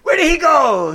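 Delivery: mock calling out.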